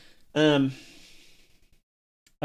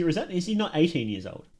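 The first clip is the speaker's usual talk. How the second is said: ordinary talk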